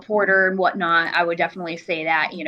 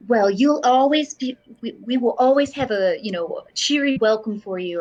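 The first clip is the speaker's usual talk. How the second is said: grandma voice; 2 semitones higher than usual. Acted. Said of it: "I'm grandmaing him really hard".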